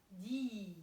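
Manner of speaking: "dis" held with a long vowel; isolated second syllable. Shown as a demonstration. Teacher isolates the second syllable, "dis" drawn out long. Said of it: "En deuxième, j'entends".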